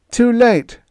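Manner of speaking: jovial giant shouting introductions; hearty sailor Moore. A narrator's reading. Crewman greets groggy Greg, hearty and loud.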